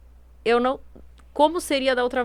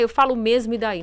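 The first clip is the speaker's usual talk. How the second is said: defiant; 3 dB louder than usual. Acted. Acted quote of blunt, defiant person.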